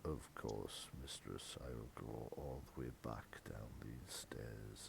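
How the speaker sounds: very low, soft, long-suffering servant; deep weary murmur; weary butler. Acted. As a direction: sigh the words out like a put-upon butler. Butler answers mistress wearily.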